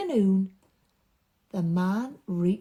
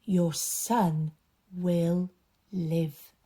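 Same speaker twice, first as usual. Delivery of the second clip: slow reassurance; 2 semitones lower, much slower than usual. Acted. Jesus reassuring the worried father, slow and tender. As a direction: promise it tenderly, slowly.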